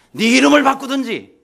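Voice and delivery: high, loud mock decree; stern imperial ultimatum. Emperor ordering his namesake to change, acted stern command. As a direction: declare it like an offended emperor.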